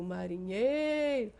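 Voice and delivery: marinheiro with the NHEI syllable drawn out; lingering stressed NHEI in marinheiro. Shown as a demonstration. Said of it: "Quando se tem uma intensidade sonora maior".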